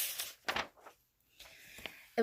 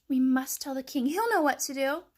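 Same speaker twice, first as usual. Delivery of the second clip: hen voice; 4 semitones higher, 5 dB louder than usual. Acted. Hen voice, alarmed.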